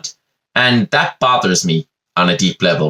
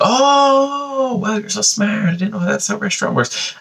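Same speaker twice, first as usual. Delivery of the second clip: mock impressed customer; 10 semitones higher than usual. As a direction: play the dazzled customer sarcastically. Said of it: "they're like".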